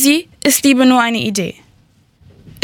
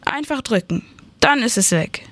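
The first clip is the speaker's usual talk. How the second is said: whispered, softer coaxing; 3 semitones higher, 5 dB quieter than usual. Acted. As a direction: coax him in a tempting whisper. Shopkeeper urges pressing the button.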